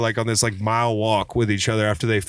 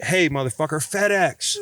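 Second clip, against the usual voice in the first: mock calling out; 3 semitones higher than usual. Retold taunt to hot-headed brother.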